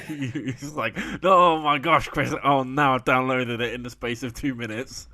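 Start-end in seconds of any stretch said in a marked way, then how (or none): 1.2-5.1 hammed-up breathless news, easing off at the end; mock excited co-host. Friend mimics co-host downloading the app, mock excited. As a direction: tease by imitating his big announcement. Teasing mimicry of co-host's announcement.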